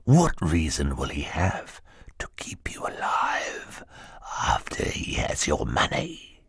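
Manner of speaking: slow, low, soft sinister whisper; menacing whisper. Acted. Henchman warns Klaus he will die, whispering slowly. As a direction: breathe the threat slowly into his face.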